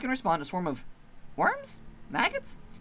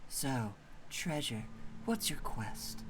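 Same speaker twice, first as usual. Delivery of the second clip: lower, soft easygoing monster; mellow monster; 3 semitones lower, 10 dB quieter, much slower than usual. Acted. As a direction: shrug it off lazily.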